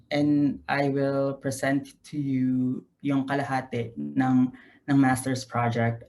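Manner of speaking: switching between English and Tagalog mid-sentence; casual Tagalog-English code-switching; Taglish. Real, not acted. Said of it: "is it okay if I do it in Taglish".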